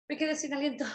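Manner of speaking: softly gasped, mock winded; out of breath. Shown as a demonstration. Teacher acting out the phrase for students, winded. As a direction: catch a breath, then speak weakly. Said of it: "Te quedaste sin aliento".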